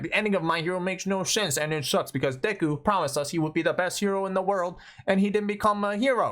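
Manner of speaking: mock-aggrieved fan gripe; mock complaining. Mimics complaining TikTokers.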